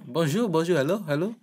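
playful high bonjour, bonjour, hello, hello; sing-song greeting. Pretend. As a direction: greet the shop cheerfully in a lilting voice.

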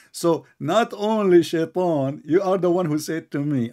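heated, high-pitched insistence. Real, not acted. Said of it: "I need to speak slow".

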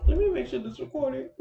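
giggling at your own silliness; real laughing apology to viewers. Real, not acted. Laughing at her own mistake.

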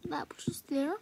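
hushed aside to the camera; secretive whisper about the stain. Real, not acted. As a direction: whisper it so mom won't hear.

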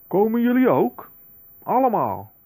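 excited invitation. Acted. Inviting everyone to party.

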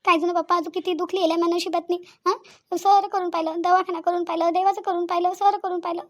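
tearful, anguished lament; crying. Acted. Childless woman pouring out grief to father-in-law, crying. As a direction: plead helplessly through tears. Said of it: "पहिले तर रडणं बंद कर".

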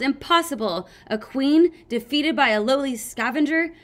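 overacted queen's despair; hammed-up dying queen. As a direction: wail theatrically over the loss. Sunny's queen dying theatrically.

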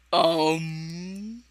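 soft, held-out "um" testing for echo; long drawn-out um. Real, not acted. Testing for an echo in a friend's mic, drawn-out um. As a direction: hold the hum on and on. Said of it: "Trying to make myself echo again".

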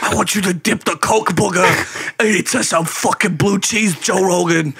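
gruff comedian voice. Pretend. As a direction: bark it like a crude stand-up ranting at Joe. Bit where he voices Joey Diaz.

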